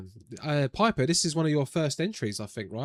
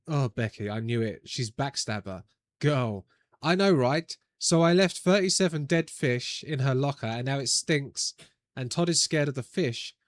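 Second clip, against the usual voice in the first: put-on Valley Girl voice. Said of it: "read in my head as the terrible Valley Girl voice".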